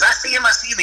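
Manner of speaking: high-pitched retold reply; imitating an eager hunter; excited. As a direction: answer urgently, target in sight. Buddy answering as ducks come in.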